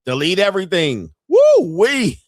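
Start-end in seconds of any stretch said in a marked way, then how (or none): 1.3-2.2 excited whoop. Real, not acted. Reaction to delete everything.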